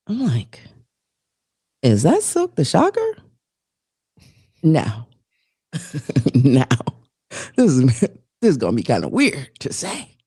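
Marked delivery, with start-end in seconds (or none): 1.8-3.2 high, loud double take; shocked recognition. Retold or imitated. Mom at a high school game recognizing a rapper, shocked and loud. 7.6-10.2 sheepish confiding whisper. Real, not acted. Confessing to her cohost that she thinks a rapper was hot, whispered.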